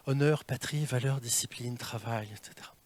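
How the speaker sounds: droning list. Shown as a demonstration. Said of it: "mauvaise nouvelle".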